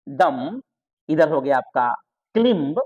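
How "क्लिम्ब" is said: क्लिम्ब with short i and a sounded b; mistaken pronunciation. Shown as a demonstration. Teacher shows the wrong reading, क्लिम्ब with short i. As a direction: read क्लिम्ब as spelt, b audible. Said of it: "इसको क्लिम नहीं पढ़ना है".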